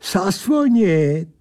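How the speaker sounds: high, slow, drawn-out creature voice; taunting creature. Acted. Creature answers the narrator's challenge, slow taunt. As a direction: stretch the word out tauntingly.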